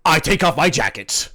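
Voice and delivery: big earnest himbo, loud and proud; dopey sweet himbo. Acted. Himbo Bang answers.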